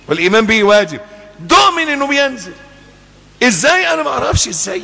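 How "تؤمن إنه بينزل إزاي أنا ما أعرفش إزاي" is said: fervent insistence. Acted. Heated insistence on faith.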